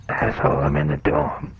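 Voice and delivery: lightly voiced gruff troll; a hint of a crude troll on the phone. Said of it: "You sound different".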